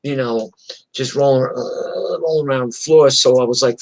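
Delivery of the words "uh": soft, drawn-out groan of a beaten man; mock dazed groan. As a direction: imitate someone groaning on the floor. Imitating beaten man on floor.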